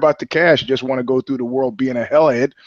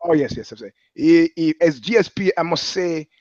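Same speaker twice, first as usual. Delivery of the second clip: put-on French Canadian accent. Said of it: "French Canadian accent".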